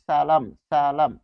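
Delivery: সালাম slowly, s kept dental; slow dental s demo. Shown as a demonstration. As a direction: draw out the s of সালাম. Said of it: "থেকে গেছে". (ধীরে সালাম, দন্ত স)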